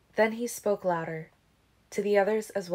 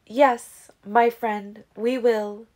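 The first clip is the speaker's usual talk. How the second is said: emphatic agreement; 3 semitones higher, 7 dB louder, much slower than usual. Acted. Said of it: "Siobhan agreed".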